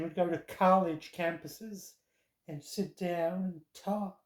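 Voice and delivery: a lightly done American accent, mimicking a campus debater. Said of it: "That was an American accent".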